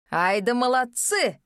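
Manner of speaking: slow, loud mocking applause; loud mocking praise. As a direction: praise them loudly, in scorn. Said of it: "громко сказал Рорен".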